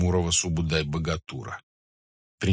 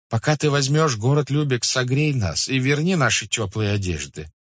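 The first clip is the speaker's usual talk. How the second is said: raised-pitch merchants' plea; exclaiming; 7 semitones higher, 4 dB louder than usual. Acted. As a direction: cry out a plea to the khan. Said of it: "Ободранные ганзейские купцы воскликнули". (просительное восклицание купцов)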